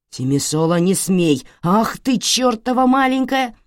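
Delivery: building to a loud, high curse; rising fury. Acted. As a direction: lunge at her in rage. Father cursing daughter.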